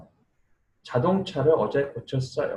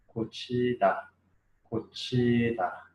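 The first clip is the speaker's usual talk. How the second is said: drawn-out 고치다 for learners to follow; slow word modelling; 3 dB quieter, slower than usual. Shown as a demonstration. Teacher introducing the day's verb to learners, slow modelling. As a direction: stretch 고치다 slowly, syllable by syllable.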